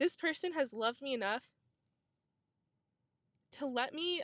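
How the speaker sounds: emotional, choked-up voice about to break, teary. On Valentine's Day, talking about the person who loved them, about to cry. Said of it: "I'm gonna cry".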